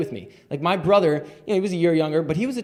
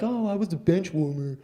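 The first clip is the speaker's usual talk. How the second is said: imitating a self-pitying moaner; lightly whining quote; mock complaining; 4 dB quieter than usual. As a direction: complain in mild mockery. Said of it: "most people complain".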